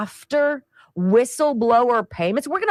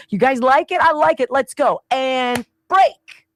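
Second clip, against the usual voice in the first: mock huddle hype; 4 semitones higher, 4 dB louder than usual. Imitated team huddle pep talk.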